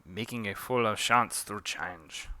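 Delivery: put-on slow, mild French accent; measured French-accented line. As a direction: take it slowly in mock French. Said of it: "Forgive my French accent".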